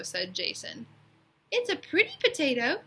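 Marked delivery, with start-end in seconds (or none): 1.5-2.8 trying to be nice. Acted. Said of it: "trying to be nice".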